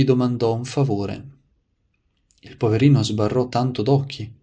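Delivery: measured, projected read-aloud of a saint's life; story narration. A narrator's reading. Preacher reading saints' anecdotes to listeners, devotional narration. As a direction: read it out clearly, phrase by phrase.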